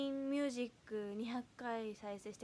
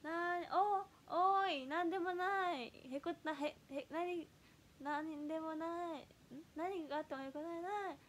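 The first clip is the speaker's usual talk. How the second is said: stumbling, half-remembered idol catchphrase, pitched up; fumbled catchphrase; 5 semitones higher than usual. Retold or imitated. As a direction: trip over the idol catchphrase, unsure. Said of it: "ちょっと省略バージョンになっちゃってて".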